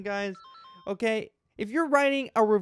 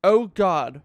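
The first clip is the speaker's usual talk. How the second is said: dramatic reading. Acted. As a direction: grandly read review voice, mock-serious. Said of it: "a dramatic reading of this guy's review".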